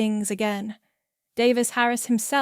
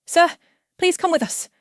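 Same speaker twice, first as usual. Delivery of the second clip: raised, loud, firm request; 8 semitones higher, 6 dB louder than usual. A narrator's reading. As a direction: address him firmly, with authority. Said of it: "one says firmly".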